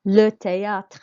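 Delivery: THÉÂTRE said loudly, é as "ay"; French THÉÂTRE, "tay-AH-tr", projected; careful French pronunciation. Shown as a demonstration. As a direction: model THÉÂTRE for repeating, â as open "ah". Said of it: "makes an A sound on the E accent".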